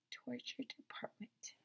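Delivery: eerie unvoiced whisper; spooky whisper. Real, not acted. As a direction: breathe the title ominously. Spooky repeat of title.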